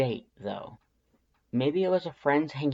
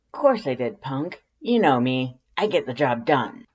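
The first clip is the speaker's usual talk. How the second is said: a touch louder, cocky tomboy swagger; proud Undyne; 2 semitones higher, 6 dB louder than usual. A narrator's reading. Undyne answering the hug, lightly cocky and a bit louder. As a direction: brag it lightly like a tough friend.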